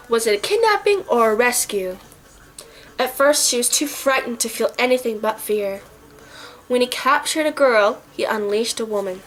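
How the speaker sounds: measured, dramatic blurb reading; synopsis read. Acted. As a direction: read aloud like a movie blurb. Reads out the movie's synopsis.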